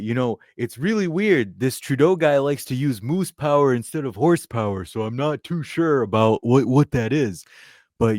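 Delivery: half-committed impression of a rambling politician; orange blond politician. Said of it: "I can't do his voice".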